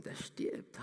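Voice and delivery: a desperate father's whisper; whispered plea. Acted. Father whispering to Jesus that his son is dying. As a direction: breathe it out, barely voiced.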